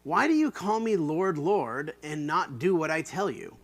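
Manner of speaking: earnest rebuke, first word lifted; Jesus' words. Shown as a demonstration. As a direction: ask it as Jesus would. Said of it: "note the way that Jesus says this".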